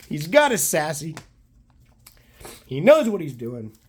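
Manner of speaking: hoarse, losing his voice; scratchy, worn-out voice. Real, not acted. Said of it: "I've lost my voice".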